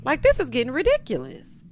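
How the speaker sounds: high, loud protest; loud exasperation. Real, not acted. Recapper fed up with Karen and Aaron, loud exasperation.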